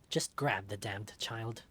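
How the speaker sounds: slow, low command; slow impatient boss. Acted. Boss ordering his henchman, slow and impatient. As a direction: drag out the order with contempt.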